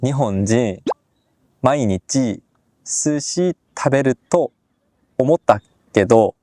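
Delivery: halting Japanese with a slight Korean accent. Shown as a demonstration. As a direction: attempt a beginner's Korean-accented Japanese, word by word. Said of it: "ちょっと韓国語っぽいです".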